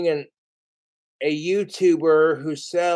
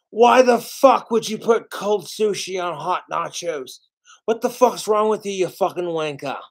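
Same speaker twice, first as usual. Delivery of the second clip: a hint of Gordon Ramsay, higher and a bit louder, ranting; 3 semitones higher, 3 dB louder than usual. Imitating Gordon Ramsay yelling at a cook over sushi nachos, mild mock rage. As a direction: lightly mimic a raging celebrity chef. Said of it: "I can just hear Chef Gordon Ramsay losing his fucking shit".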